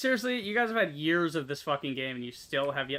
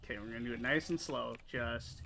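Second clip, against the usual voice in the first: careful unhurried voice; 3 semitones lower, 7 dB quieter than usual. Real, not acted. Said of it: "is what I say".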